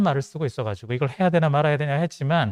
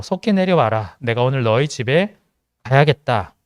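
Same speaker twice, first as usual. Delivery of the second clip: a touch of grave authority, a little louder; stern solemn Jesus; 3 dB louder than usual. Acted. Jesus calls Zacchaeus down from the tree, stern and solemn. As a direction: speak down firmly like a solemn teacher. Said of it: "엄격하고 엄청 근엄하고 좀 진지하시죠".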